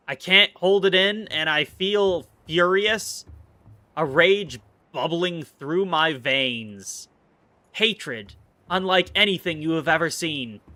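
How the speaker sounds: hammed-up slow dramatic rage; mock fury. Streamer pretending to rage at fish, slow hammed-up villain speech. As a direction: play the brooding villain, slow and heavy. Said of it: "I'm mostly just playing".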